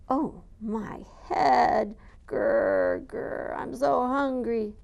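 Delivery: slow, moaning ogre with growls; groaning ogre. Acted. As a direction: moan in pain and hunger.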